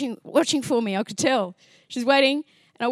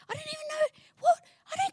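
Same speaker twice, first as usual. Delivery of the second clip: exasperated plea; faster than usual. Retold or imitated. Complaining to God.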